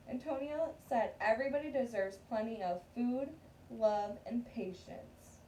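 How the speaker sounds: steady read-aloud storytelling voice; story narration. Acted. Teacher reading a picture book to her class, read-aloud narration.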